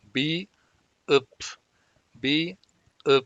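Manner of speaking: "Bi, up" with the final p clipped short and unreleased; slow teacher demo of "bi, up"; Korean syllables bi up. Shown as a demonstration. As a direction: sound out "bi" then a short, closed "up". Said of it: "va a tomar el sonido de P".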